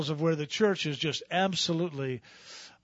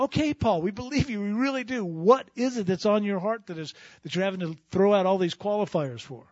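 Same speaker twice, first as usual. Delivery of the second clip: higher, light questioning congregation voice; listener to Paul; 5 semitones higher, 4 dB louder than usual. Acted. Believers answering Paul, lightly higher and puzzled. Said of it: "you go".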